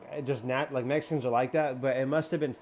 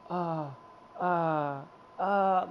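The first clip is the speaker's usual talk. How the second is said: imitating dazed moans; 4 semitones higher, 3 dB quieter, much slower than usual. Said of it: "like that".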